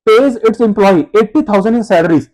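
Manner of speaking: slow, word-by-word reading; slow dictation. Shown as a demonstration. Teacher reading the exam question to students, very slowly. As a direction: read the exam question out for copying.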